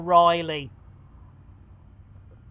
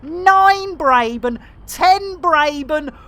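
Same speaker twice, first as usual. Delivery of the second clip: building excited count; 2 semitones higher than usual. Real, not acted. Streamer counts gifted subs, building excitement. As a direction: climb with each number.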